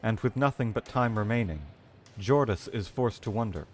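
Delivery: dramatic reading. Acted. Streamer reading a dying Cephalon's log, grim narration. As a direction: read the logbook like a grim narrator. Reading lore text aloud.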